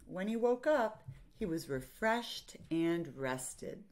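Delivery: measured picture-book reading; story narration. A narrator's reading. Teacher reads a picture book to children, story narration. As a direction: read to children, pausing between phrases.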